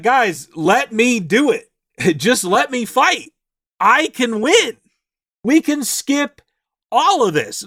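high, slow, eager plea to the party; eager pleading. Retold or imitated. Teammate begging his party to let him fight alone, eager and high.

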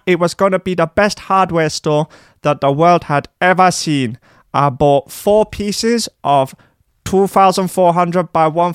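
high squeaky whiny Dutch DJ; DJ voice. Acted. Tied-up DJ boasting to captors, high squeaky whine. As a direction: play a pompous squeaky superstar.

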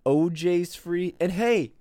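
sarcastic good news, rising to a big punch. Pretend. Host mock-announces Bill Cosby is free, sarcastic fanfare. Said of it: "I'm being very sarcastic".

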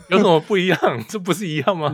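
high, loud surprised question. Real, not acted. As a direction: ask in amused disbelief. Teasing surprise at the correction.

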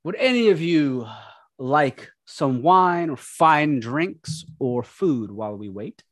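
slow, courteous servant; lightly voiced polite butler. Bartholomew offers drinks.

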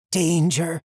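loud, high cry of alarm; urgent warning. A narrator's reading. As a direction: call out a sharp warning. Warning cry in narrated fantasy scene.

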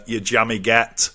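northern English, said low and matter-of-fact; northern English accent. Shown as a demonstration. Host teaches an American British slang, northern English accent. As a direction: give it the northern English version. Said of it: "give the northern version".

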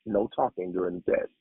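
teacher shushing the class with a whispered shh, then a firm "no talking"; breathy shh, then a strict reminder; hushing teacher. Retold or imitated. Teacher quieting the class at test start, whispered shush. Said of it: "the teacher would say".

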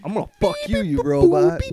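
robot voice. Acted. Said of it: "little gay robot".

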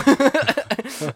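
Swallow? with a high squeaky rise; questioning swallow. Shown as a demonstration. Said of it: "I say it like a question".

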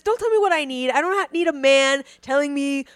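high, indignant mock rant; scoffing at Maslow, mock outrage. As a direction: huff at being told what you need. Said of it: "Fuck you".

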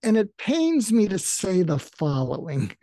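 a mildly pained wince on the words; wincing. Shown as a demonstration. Coach demonstrates the wince confrontation with a mild pained tone. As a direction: say it as if it hurts a little. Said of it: "you wince, like, to say".

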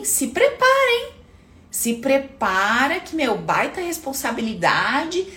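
slow, drawn-out boss voice building it up; boss hyping. Acted. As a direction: stretch out the big news like a proud boss.

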